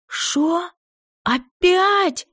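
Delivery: high wailing cartoon wolf howl. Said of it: "взвыла я голосом волка из мультика".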